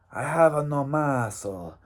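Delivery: a half-hearted Mexican accent on "I have no muscle", barely there; weak mock Mexican accent. Shown as a demonstration. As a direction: try the Mexican accent and fall short. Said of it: "that's not a good Mexican accent".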